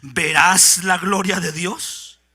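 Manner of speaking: reproche suave. Acted. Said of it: "El Señor se indigna con Marta".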